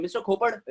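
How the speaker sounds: खोपड़ with the final "e" dropped; खोपड़ ending on a hard ḍ; foreigners' mispronunciation. Acted. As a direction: mimic a foreigner's खोपड़, no "e" at the end. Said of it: "अपने को आकर क्या बोलते हैं?".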